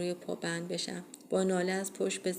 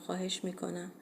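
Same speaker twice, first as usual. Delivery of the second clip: pleading moan; 5 dB quieter than usual. Acted. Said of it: "با التماس نالیدم".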